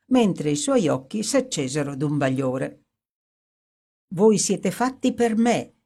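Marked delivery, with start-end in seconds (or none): 4.1-5.7 horrid gaiety. Acted. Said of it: "esclamò con orrenda gaiezza".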